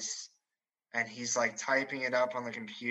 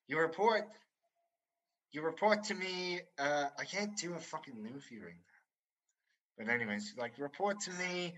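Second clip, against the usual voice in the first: stern officer; 3 semitones higher, 5 dB quieter than usual. Retold or imitated. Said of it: "This is what he sounds like".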